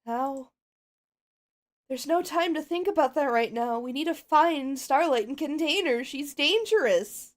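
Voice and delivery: lightly voiced determined pony; a hint of a worried leader pony; Twilight urgent. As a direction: Twilight giving orders.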